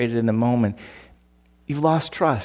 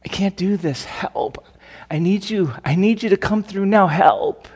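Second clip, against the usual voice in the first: hushed, broken cry for help, softer; soft desperate plea; 5 semitones higher, 4 dB quieter than usual. Retold or imitated. Praying alone to God, a hushed desperate plea for help. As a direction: plead quietly, almost breaking. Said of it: "when's the last time you just said".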